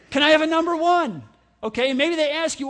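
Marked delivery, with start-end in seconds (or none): 0.1-1.2 brisk demo, a bit louder; quick order. Shown as a demonstration. Pastor timing himself ordering, brisk. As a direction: rattle it off to show how fast. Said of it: "Anybody wanna time me?".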